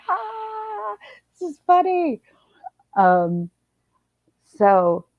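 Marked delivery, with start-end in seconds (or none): 0.1-2.2 much higher, playful imitation of laughing girls; mock giggly kids. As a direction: lightly mimic the giggling kids. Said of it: "They were laughing so hard".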